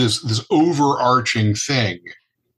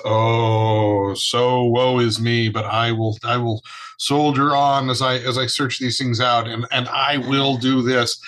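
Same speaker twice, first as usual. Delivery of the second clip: drip with gloomy ennui; ennui-laden Larry Talbot. Retold or imitated. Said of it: "the ennui dripping from his voice".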